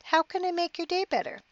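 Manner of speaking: high mocking repeat, voice shooting up; wife mocking her husband's question, incredulous and high; incredulous echo. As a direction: throw his words back in disbelief. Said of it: "She looked at him angrily".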